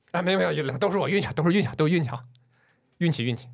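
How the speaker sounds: 略显油滑的客套推辞; 连声谦让，句尾渐渐压低; 油腻地谦虚. Acted. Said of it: "怎么这么油腻啊？". (带点油腻的假谦虚)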